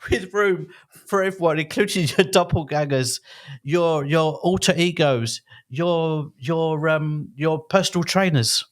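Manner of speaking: lively announcer-style podcast intro; theatrical script read. Acted. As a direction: perform the welcome with gusto. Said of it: "a Laurence, uh, Olivier performance".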